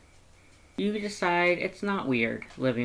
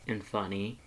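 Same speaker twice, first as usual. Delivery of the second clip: fond, smiling; 4 semitones lower, 6 dB quieter than usual. Acted. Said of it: "he says with a small smile".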